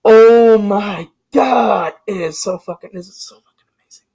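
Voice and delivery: breathless awe, the voice dropping away to nothing; awed whisper. Retold or imitated. Fan reacting to the movie, trailing into an awed whisper. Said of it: "I'm like".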